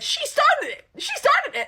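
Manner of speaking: high, loud, laughing disbelief; scandalised squeal; outraged outcry. Real, not acted. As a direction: shout it in laughing protest. Teller's outraged cry at the quarrel.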